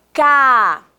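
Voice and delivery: "Cadeira" split into three beats, Ca, dei, ra; syllable by syllable. Shown as a demonstration. Teacher has pupils count mouth openings, syllable by syllable. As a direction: pause after each syllable of "Cadeira". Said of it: "Quantas vezes eu abri minha boca".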